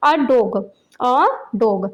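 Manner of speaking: "a dog" said as separate, careful words; pronunciation model. Shown as a demonstration. Teacher showing children how to pronounce it, careful pronunciation model. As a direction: say "a dog" distinctly for learners to copy. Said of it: "पहले इनकी pronunciation देख लेते हैं".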